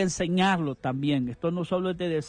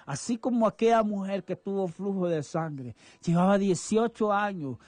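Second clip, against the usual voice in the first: fervent prayer. Acted. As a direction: pray it over her like a blessing. Radio pastor prays for a listener.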